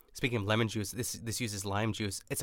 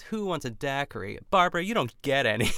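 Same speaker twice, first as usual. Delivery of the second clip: a light, higher imitation of a teasing hostess; Ina's cutthroat hosting; 4 semitones higher, 4 dB louder than usual. Host retells Ina at the dock, lightly mocking hostess voice. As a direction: lightly mimic a hostess excluding one guest. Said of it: "And Ina says".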